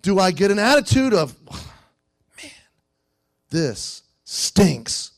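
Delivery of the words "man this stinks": sour complaining. Retold or imitated. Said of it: "sour, complaining, murmuring attitude".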